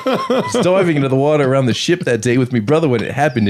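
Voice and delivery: mock British accent, giggling through it; a giggly attempt at a British accent; laughing British accent. Retelling the witness account in laughing British accent. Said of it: "that weird accent".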